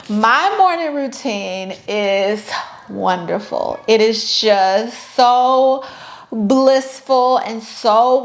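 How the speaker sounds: slow, dreamy, sugary fake bliss; mock blissful. To viewers, faking a perfect morning, mock blissful and slow. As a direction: pretend the morning is a dream, slowly. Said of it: "like, lying".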